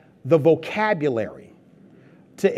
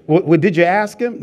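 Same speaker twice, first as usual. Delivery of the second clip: pressing wife; 6 dB louder than usual. Retold or imitated. Wife grilling him after hangout.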